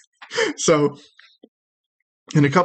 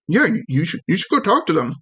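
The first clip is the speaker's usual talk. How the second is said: high little voice, nudging a friend; encouraging little critter, slightly stammered; tiny creature urging; 5 semitones higher, faster than usual. Acted. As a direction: urge them on in a small, raised voice. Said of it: "And he goes".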